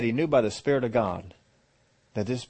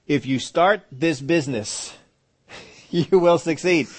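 slow booming promise; 5 semitones higher, 6 dB louder, slower than usual. Acted. Lord's promise, acted.

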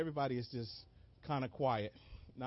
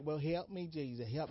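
softer, composed polite request for help; mock calm plea; 6 dB quieter than usual. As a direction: ask politely, as if nothing's wrong. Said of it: "you just be like".

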